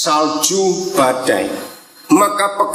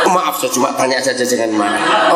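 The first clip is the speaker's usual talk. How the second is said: laughing apology; 6 semitones lower than usual. Real, not acted. Joking apology to the father.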